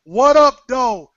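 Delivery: Detroit-style greeting; Detroit accent. Shown as a demonstration. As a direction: say it the way Detroit says it. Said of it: "That's how we say it in Detroit".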